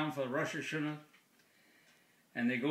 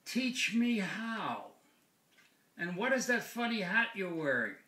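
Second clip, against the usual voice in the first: a hint of a higher parrot voice; eager parrot; 6 semitones higher than usual. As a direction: lightly play a bird asking to learn. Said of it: "And the bird says".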